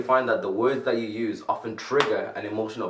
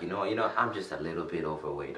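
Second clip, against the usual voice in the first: softer, lower gentle self-talk; mild self-description spoken softly; softened phrasing; 5 semitones lower, 7 dB quieter than usual. Shown as a demonstration. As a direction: ease the blow gently. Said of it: "we say, like".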